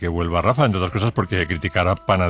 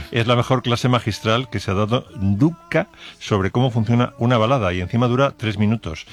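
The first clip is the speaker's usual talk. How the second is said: ordinary talk, nothing marked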